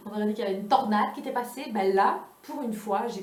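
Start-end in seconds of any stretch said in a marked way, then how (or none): 0.0-1.7 laughing. Real, not acted. Joking about the empty shelf.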